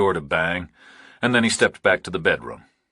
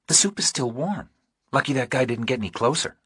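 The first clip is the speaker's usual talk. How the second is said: higher, lighter woman's voice, unhurried; Dee Marie's voice; 6 semitones higher than usual. A narrator's reading. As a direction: read her as a steady, practical woman.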